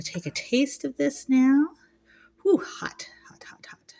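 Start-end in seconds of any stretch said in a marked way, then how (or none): 2.4-3.9 gasping around a hot bite; breathy whisper, food too hot; mouth full of hot food. Real, not acted. Just took a bite, too hot.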